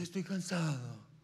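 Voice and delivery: un leve tono cansado y lento; actitud de cansado. Retold or imitated. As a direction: como un papá agotado que llega a casa. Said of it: "entrar con la actitud de". (cansancio fingido, arrastrando las palabras)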